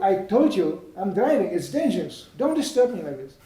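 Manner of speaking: acted exasperated warning; scolding driver. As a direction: scold the pestering passenger.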